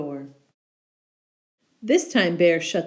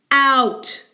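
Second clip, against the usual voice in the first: much louder bark of an order; commanding shout; 7 semitones higher, 8 dB louder than usual. Acted. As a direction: bear orders the mouse out. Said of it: "commanded Bear".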